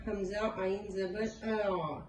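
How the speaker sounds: slow, spelled ہمزہ عین زبر آ; slow spelling demo. Shown as a demonstration. Teacher spelling the sakin ain. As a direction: spell it out slowly. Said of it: "ساکن حرف پڑھتے ہیں".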